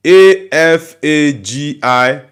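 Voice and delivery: A F A G I letter by letter, slowly; spelling out. Shown as a demonstration. Spelling the Igbo word for a chat viewer, slowly. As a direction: spell Afagi out one letter at a time. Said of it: "That Afagi is".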